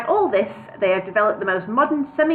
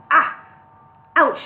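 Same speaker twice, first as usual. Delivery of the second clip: mild pain noises; 6 semitones higher, 6 dB louder than usual. A narrator's reading. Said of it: "uttering all his usual expressions of pain".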